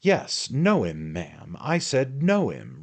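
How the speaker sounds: loud, high and fierce insistence; fierce repeated demand; ferocious. A narrator's reading. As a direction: bark the question back at her. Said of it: "replied Mister Magnus with ferocity".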